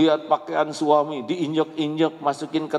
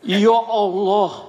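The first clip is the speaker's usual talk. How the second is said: laughing sigh; 9 semitones higher, 6 dB louder, much slower than usual. Retold or imitated. Sighing at social media posting.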